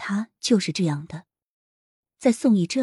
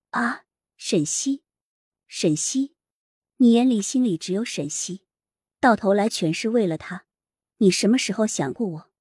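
tearful accusing; 3 semitones higher than usual. Acted. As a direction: demand it in tears. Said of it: "声泪俱下地质问着".

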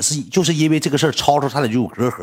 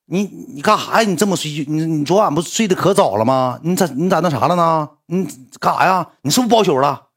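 put-on suspicious girlfriend; 3 semitones higher than usual. Acted suspicious girlfriend grilling on phone.

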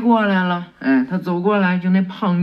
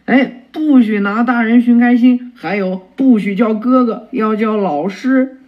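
louder, higher stern correction; showing authority; 4 semitones higher, 5 dB louder than usual. Acted. Teacher scolding cheeky boy, louder mock-stern. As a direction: puff himself up as the teacher. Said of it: "开始展示他的威风".

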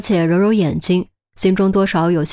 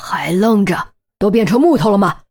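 scolding outburst, mildly raised; mild shout. A narrator's reading. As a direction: rebuke the frozen team sharply. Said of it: "不由喝道".

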